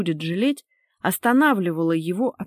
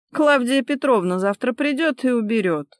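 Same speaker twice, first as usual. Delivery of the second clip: higher-voiced dismissive excuse; displeased huff; 5 semitones higher, 3 dB louder than usual. Wife passes chore to cleaner, higher huffy voice. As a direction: brush the chore off, voice raised. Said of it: "недовольно фыркнула та".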